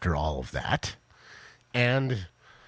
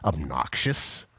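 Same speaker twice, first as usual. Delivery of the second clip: obnoxious; 4 semitones lower, slower than usual. Acted. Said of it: "what would you call it?".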